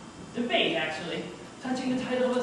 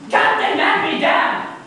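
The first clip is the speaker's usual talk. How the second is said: louder, slow, fed-up exclamation; the narrator, fed up with the runaround, cuts his friend off loudly; exasperated outburst; 8 semitones higher, 10 dB louder, much slower than usual. Acted. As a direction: blurt it out in exasperation, drawn out. Narrator loses patience.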